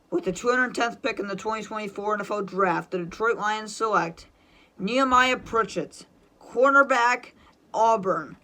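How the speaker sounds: measured pick read-out with pauses round the name; formal announcer delivery, punching name and position; draft pick announcement. Pretend.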